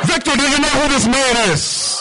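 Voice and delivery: high-pitched put-on questioning voice; incredulous questioning. Doorman checking the preacher's identity with Victor, mock incredulous.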